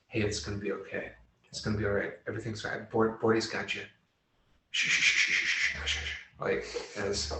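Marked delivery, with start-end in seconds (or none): 0.1-3.8 soft, hushed comforting murmur; sweet nothings. Acted. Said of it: "I'm whispering sweet nothings to him". 4.7-6.2 whispered shh to calm him; soothing shushing. Acted. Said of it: "I'm whispering sweet nothings to him".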